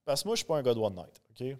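muffled behind a Batman mask; through a face mask. Real, not acted. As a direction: speak through a costume mask. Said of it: "ça fait spécial de parler avec le masque". (voix étouffée par le masque)

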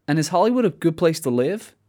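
lightly put-on American accent. American lady asking about living in Hollywood, imitated American accent. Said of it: "in her American accent".

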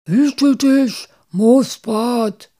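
urgent, high warning cry; calling out. A narrator's reading. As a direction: call a friend back from danger. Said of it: "rief Muff".

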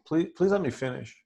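soft, kindly "please let me finish"; gentle intonation. Shown as a demonstration. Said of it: "with that kind of intonation".

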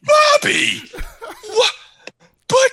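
very high, loud, laughing protest; mock startled protest. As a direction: squeak out a shocked protest. Voicing startled Alex.

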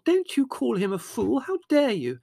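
very high, loud indignant interruption; outraged. A narrator's reading. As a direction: cut in furiously with pitch shooting up. Margot cuts in, outraged.

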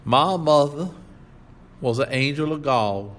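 mock-tearful sentimental drifter; strained voice. A narrator's reading. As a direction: squeeze the words out as if near tears. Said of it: "in a very strained voice".

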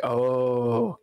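drawn-out low "oh", mock-salty locals. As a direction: imitate locals turning salty, mildly. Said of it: "they got all salty".

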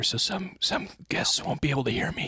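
hushed stage whisper; mock-secret whisper. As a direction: whisper it like a secret kept from guests. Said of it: "I'm gonna say it in a whisper".

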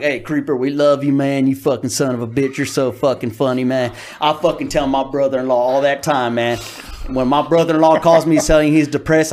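gym bro fan. Retold or imitated. Buff fan at the meet and greet gushing, hearty bro voice. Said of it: "He was more like".

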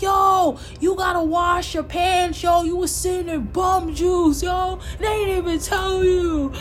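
mock-urgent heads-up, loud; retold loud warning. Retells warning the man, louder, higher.

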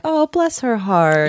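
lightly imitated Southern accent, slow. Imitating a Southerner's underhanded insult, light Southern accent. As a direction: draw out a touch of Southern. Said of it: "they're so famous for that too".

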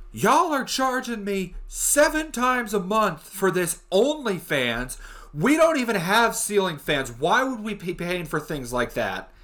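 imitating an irate caller, slow, high-pitched complaint; hammed-up outraged customer, drawn out and high; guns a-blazing. Karen calls support over OnlyFans charges, guns a-blazing. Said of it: "fucking guns a-blazing".

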